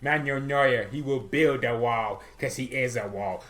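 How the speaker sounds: slow, stretched-out rally delivery; hint of parody politician; lightly voiced politician. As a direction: draw out the big boasts like a stump speech. Parody rally speech about a wall.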